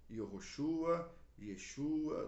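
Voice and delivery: Yehoshua said slowly, then Yeshua; the Hebrew forms, clearly spelled out; Hebrew names. Shown as a demonstration. Teacher recapping the Hebrew name, Hebrew forms. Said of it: "do hebraico".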